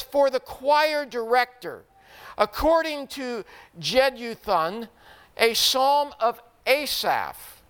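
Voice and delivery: measured reading of a psalm inscription; scripture reading. Acted. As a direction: read it out formally, phrase by phrase. Reads the psalm inscription aloud.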